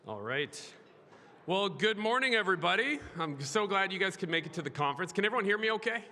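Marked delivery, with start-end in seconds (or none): 1.5-6.0 in front of an audience. Real, not acted. Speaker opens conference to crowd.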